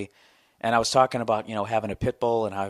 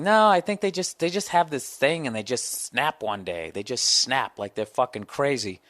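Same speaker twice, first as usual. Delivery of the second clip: mocking doubters. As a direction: lightly parody the pit bull skeptics. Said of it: "people have, like, this thing".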